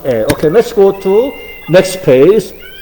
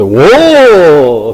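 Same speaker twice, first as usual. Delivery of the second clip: long drawn-out 워, like calling to cows; cattle-driving call; 3 dB louder than usual. Shown as a demonstration. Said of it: "how we drive the cows in Korea".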